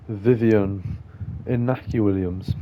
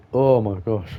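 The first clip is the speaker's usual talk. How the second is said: hiccup gasp mid sentence; speaking with the hiccups. Real, not acted. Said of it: "I've got the hiccups".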